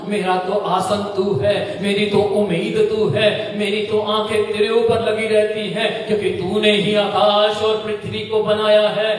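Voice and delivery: fervent prayer building in intensity; earnest acted-out prayer; pleading prayer. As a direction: cry out to God, building. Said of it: "परमेश्वर से कहा".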